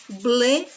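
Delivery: "Ble" said alone, firmly drawn out; isolated stressed syllable. Shown as a demonstration. Teacher singling out the penultimate syllable, "Ble" held. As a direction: land hard on "Ble" as a lone syllable. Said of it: "é a penúltima sílaba da palavra".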